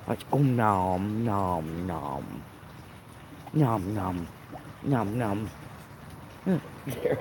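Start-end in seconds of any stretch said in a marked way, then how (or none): 0.1-5.5 low, slow chomping nom noises; munch it out low like a hungry fish. Pretend. Mimicking fish eating.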